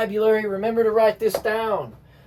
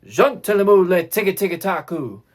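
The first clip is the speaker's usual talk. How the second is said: firm fortissimo chant, lower in pitch; 4 semitones lower than usual. Shown as a demonstration.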